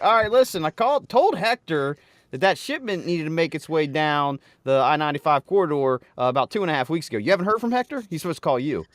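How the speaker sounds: hammed-up phone rant at a supplier; mock yelling. Playing the angry client yelling at Dave. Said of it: "you can start yelling at me like".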